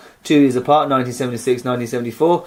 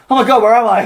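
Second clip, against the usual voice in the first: mock confusion; 8 semitones higher, 5 dB louder than usual. Jokes about bang on head.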